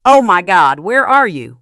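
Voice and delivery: loud panicked shouting; frantic shriek. Acted. Daughter frantically yelling for her missing mother, loud shout. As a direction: yell down the phone in panic. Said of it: "Lucy's shriek was so piercing".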